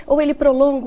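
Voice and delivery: usual speaking voice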